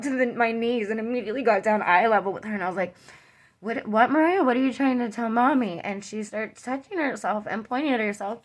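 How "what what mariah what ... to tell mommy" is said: urgent questioning, higher on the name; pressing a small child for an answer, in retelling; retold alarmed mother. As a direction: imitate a startled mom asking her child.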